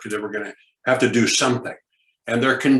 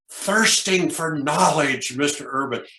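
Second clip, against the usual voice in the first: eager enthusiasm; 3 semitones higher, slower than usual. Shown as a demonstration. Teacher showing students the answer, eager and slow. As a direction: savor each word like you mean it. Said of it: "with good body language and tone of voice".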